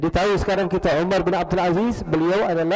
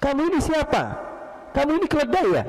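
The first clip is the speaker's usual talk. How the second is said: high-pitched, indignant challenge; retold shouting; 11 semitones higher, faster than usual. Sleeper challenging the stranger who stepped on him, shouting. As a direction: demand answers in mock outrage. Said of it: "Teriak dia".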